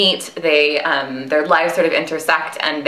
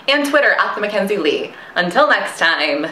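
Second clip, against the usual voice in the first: 1920s news anchor; 2 semitones higher than usual. Acted. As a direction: sign off like a vintage radio announcer. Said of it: "like a nineteen twenties news anchor".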